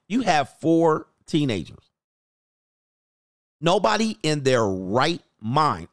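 slow, deliberate telling-off; a slow no-nonsense verdict; blunt and slow. Retold or imitated. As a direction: spell it out slowly and flatly to her. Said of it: "I said".

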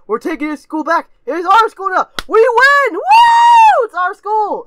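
high, loud victory whoop; rally the troops, building to a full shout; triumphant rebel yell. Acted. Acting out a rebel kid's takeover.

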